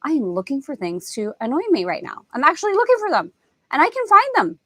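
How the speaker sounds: mock self-realization.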